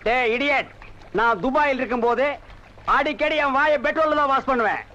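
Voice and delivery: loud, showy contempt for local water; bragging loudly about washing with petrol; loud snobbish rant. Acted. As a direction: rant like a snob back from abroad.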